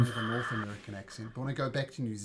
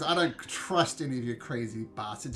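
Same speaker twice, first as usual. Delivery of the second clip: angry rant; 4 semitones higher, 6 dB louder than usual. Acted. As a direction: rant that builds higher and louder to the end. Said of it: "Nick says".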